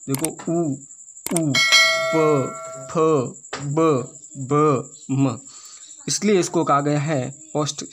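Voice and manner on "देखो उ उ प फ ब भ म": उ प फ ब भ म each said separately; lip letters demonstrated. Shown as a demonstration. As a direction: show the class each lip sound. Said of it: "उच्चारण होता है वो होठों से". (ओष्ठ्य वर्ण बोलकर दिखाते हुए)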